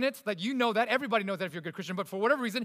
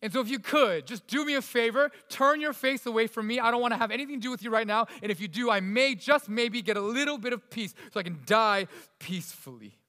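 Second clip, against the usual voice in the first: exasperated David; 3 semitones higher than usual. Retold or imitated. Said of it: "It's David's way of saying".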